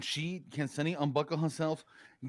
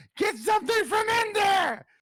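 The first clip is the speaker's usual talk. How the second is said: loud, very high shrieking scream; 7 dB louder than usual. Voicing a character in the back of a car flinging a toolbox: screaming. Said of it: "and she screams".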